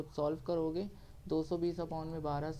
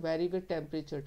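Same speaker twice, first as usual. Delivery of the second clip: slow repeat; much slower than usual. Shown as a demonstration. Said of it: "फिर बात बोल रहा हूँ".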